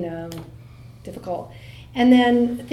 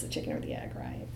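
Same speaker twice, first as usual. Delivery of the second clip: mock deep voice; 12 dB quieter, faster than usual. Speaker teases the audience with a mock-low chicken-or-egg question. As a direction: drop much lower and softer, hammed-up.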